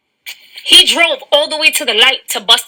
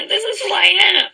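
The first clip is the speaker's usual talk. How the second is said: laughing; 3 semitones higher, faster than usual. Real, not acted. Laughing through the line.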